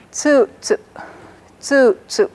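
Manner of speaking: first tsu high, second tsu low; Caddo pitch accent. Shown as a demonstration. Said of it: "This one is high and this one is low".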